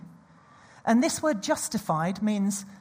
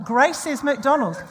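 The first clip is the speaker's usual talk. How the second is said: slow proclamation; 3 semitones higher, 6 dB louder than usual. Real, not acted. Repeated proclamation.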